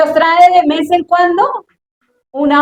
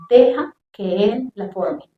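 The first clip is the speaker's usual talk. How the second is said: Holy Spirit speaking; 3 semitones lower, 5 dB quieter, slower than usual. Retold or imitated. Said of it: "el Espíritu Santo me habló".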